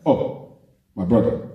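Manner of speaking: a hint of a laid-back South African greeting; mild South African accent, relaxed friendly hello. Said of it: "the way they talk".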